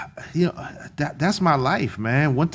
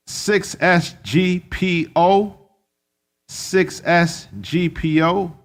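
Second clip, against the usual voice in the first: slow spelled-out code; slower than usual. Real, not acted.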